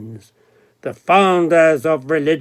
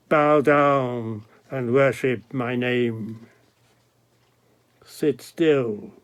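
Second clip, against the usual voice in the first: softer, lower repeat of the call to worship; hushed command; 3 semitones lower, 5 dB quieter than usual. Acted. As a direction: pull it back to a grave hush.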